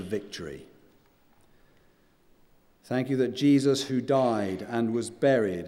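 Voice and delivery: prayer. Acted. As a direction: pray it earnestly, letting phrases settle. Leads closing prayer.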